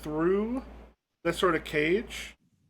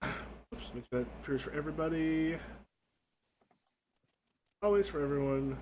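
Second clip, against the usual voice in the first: lightly voiced elderly ghost, hushed; old woman ghost; 9 dB quieter than usual. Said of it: "you got these two old women".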